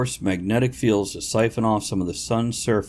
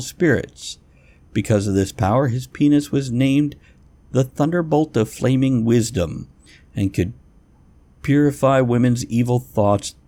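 reading aloud; 3 semitones higher than usual. Shown as a demonstration. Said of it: "I'm gonna read this out loud".

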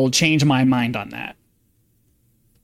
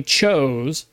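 chose drawn out and set apart; stress on chose. Real, not acted. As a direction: lean hard on the word chose, stretching it. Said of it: "I emphasize the word chose".

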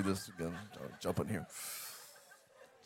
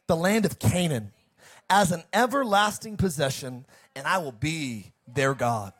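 lightly voiced divine proclamation, higher-pitched; preacher proclaiming as God; God speaking; 3 semitones higher than usual. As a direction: read it as God's solemn promise, in emphatic phrases. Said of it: "God to talk to you like that".

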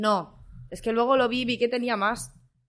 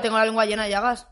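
burp while talking; speaking through a burp; faster than usual. Real, not acted. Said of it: "¡Deja de eructarte!".

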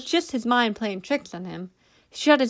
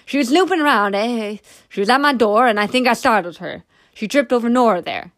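defensive excuse; 2 semitones higher, 6 dB louder than usual. A narrator's reading. Daniel excuses himself to the sergeant.

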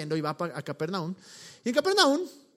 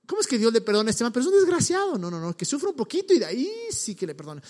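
mock indignation; 2 semitones higher, faster than usual. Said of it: "somos así".

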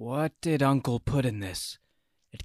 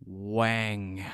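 choked, strangled single word; 4 semitones lower, 3 dB quieter than usual. Acted. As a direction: squeeze it out, strangled. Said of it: "in a strangled voice".

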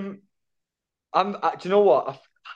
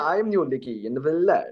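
caricature Welsh accent; 2 semitones higher, faster than usual. Shown as a demonstration. Joining in with the guest's catchphrase, mock Welsh accent. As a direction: echo it in a cartoon Welsh accent. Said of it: "those two are both caricatures of".

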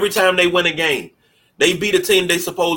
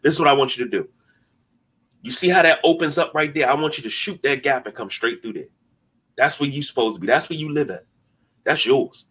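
calm coaching voice; 2 semitones lower than usual. Shown as a demonstration. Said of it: "pull a player to the side and be like".

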